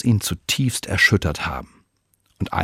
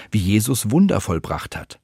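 ordinary delivery

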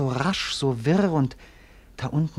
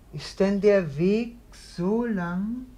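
dreamy echo of her voice; 6 semitones higher, slower than usual. Acted. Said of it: "wie sich die Stimme durch den Raum gießt".

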